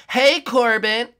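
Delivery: long sing-song shout for a friend; calling out. Real, not acted. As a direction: call across the map slowly.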